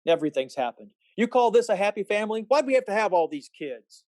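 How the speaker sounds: bitter frustrated rant; angry outburst. Acted. George lashes out at family.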